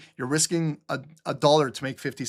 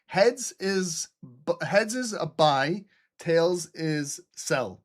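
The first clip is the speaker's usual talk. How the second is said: mock coin-flip ceremony; much slower than usual. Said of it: "I'll flip a coin for you".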